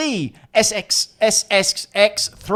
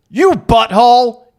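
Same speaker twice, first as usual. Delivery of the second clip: louder mock insult; 4 semitones higher, 8 dB louder than usual. Reading vulgar game lines.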